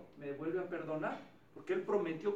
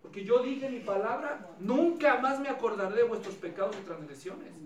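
lightly voiced God; 3 semitones higher, 6 dB louder than usual. God's imagined answer.

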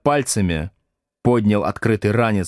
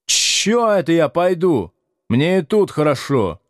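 higher-pitched sulky refusal; Градусов; 8 semitones higher than usual. A narrator's reading. Pupil refuses to go home for diary, whining defiantly. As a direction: refuse through a grimacing whine. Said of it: "скривился Градусов".

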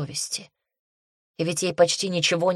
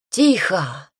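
louder call for silence; sharp command; 2 semitones higher, 5 dB louder than usual. A narrator's reading. Priestess arrives and silences the arguing girls, loud command. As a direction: cut them off loudly.

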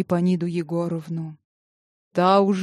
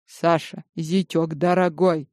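sweet cooing. Acted. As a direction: coo it sweetly to the son-in-law. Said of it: "сладко проворковала она".

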